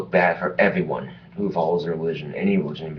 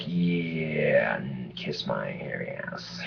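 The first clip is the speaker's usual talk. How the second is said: dismissive retort; 5 semitones lower, 8 dB quieter, much slower than usual. Retold or imitated. Defiant retort to critics.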